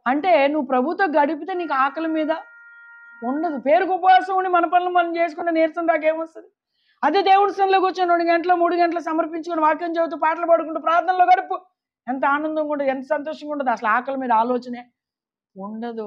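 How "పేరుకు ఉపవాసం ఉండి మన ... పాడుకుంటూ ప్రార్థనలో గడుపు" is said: higher-pitched, driving sermon delivery; impassioned preaching. Real, not acted. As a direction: preach in one urgent rising run. Preacher urges the congregation.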